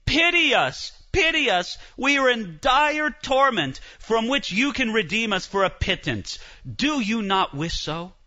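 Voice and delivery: hammed-up pleading from purgatory; pleading dead souls. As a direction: beg like a tormented relative. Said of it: "begging you and saying".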